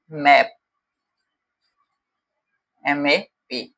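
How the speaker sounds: कैप said twice, then spelled out as सीएपी letter by letter; teacher says कैप, then spells सीएपी; word then spelled. Shown as a demonstration. Teacher showing word family to class, spells word aloud. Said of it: "word families की बात करता हूँ".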